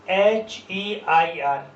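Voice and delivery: slow letter-by-letter spelling; teacher spelling it slowly; spelled out slowly. Shown as a demonstration. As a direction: spell each letter out deliberately. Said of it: "spelling letters slowly".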